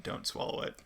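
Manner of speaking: hushed, whispered ominous line; low-volume, breathy menace; ominous warning. Retold or imitated. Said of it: "he says it really ominously".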